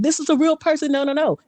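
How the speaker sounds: high, emphatic insistence; exploding crowd. Retold or imitated. Imitating app users vouching for her, high excitement. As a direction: imitate a room bursting out in protest. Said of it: "everybody just exploded saying".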